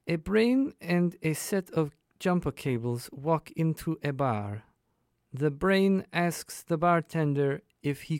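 worst fake German accent, hammy; bad German accent. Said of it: "my absolute worst German accent".

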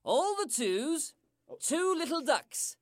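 slow, measured bingo call; bingo caller. Acted. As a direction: call the numbers like bingo night. Bingo calls.

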